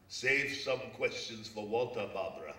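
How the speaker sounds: slow, loud playful jab at Barbara; mock Sadat retort. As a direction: draw it out and call her out. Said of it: "but I say".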